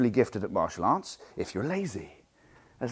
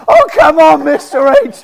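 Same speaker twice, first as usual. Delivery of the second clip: exhausted students; 14 dB louder, slower than usual. Retold or imitated. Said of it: "they're like".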